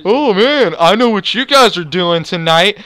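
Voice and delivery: knowing, mock-cheerful teasing; sarcastic and happy. Store worker teases the boys about tonight, sarcastic and happy. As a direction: imitate a smug, falsely happy remark. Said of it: "being sarcastic and happy".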